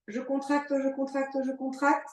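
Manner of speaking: tight voice on a held breath; holding breath. Real, not acted. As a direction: talk through a held breath. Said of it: "Je bloque mon souffle". (souffle bloqué, voix serrée)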